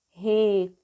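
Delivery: "Recomece" as re, co, me, ce; teacher's split reading of "Recomece"; syllable by syllable. Shown as a demonstration. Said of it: "vamos ler passo a passo".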